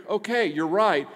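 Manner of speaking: ordinary talk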